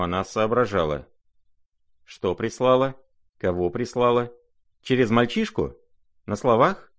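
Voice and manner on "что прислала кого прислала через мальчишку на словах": higher, urgent string of questions; rapid exclamations. Acted. Lizaveta demanding details about the note, agitated. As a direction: pelt him with questions, agitated. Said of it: "воскликнула она вдруг опять".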